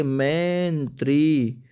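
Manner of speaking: मंत्री said slowly, each sound drawn out; slow spelled-out word. Shown as a demonstration. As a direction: draw out मंत्री syllable by syllable. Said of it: "मंत्री में छोटी ई की मात्रा आती है". (मंत्री धीरे-धीरे, हर अक्षर खींचकर)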